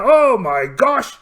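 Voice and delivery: loud and slow excited cry; excited exclamation. Acted. Pirate captain amid a gun battle, excited cry. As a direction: gasp it out mid-battle.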